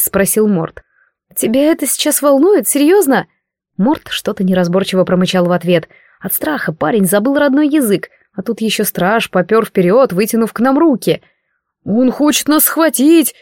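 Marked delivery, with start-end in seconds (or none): 1.4-3.3 higher, exasperated disbelief; can't believe he asks that now; incredulous. A narrator's reading. Heroine snaps at Mort in exasperated disbelief. 11.8-13.3 high, slow frightened cry; a boy yelling in terror; panicked yell. A narrator's reading. Mort cries out in fright at the guard. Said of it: "завопил Морт".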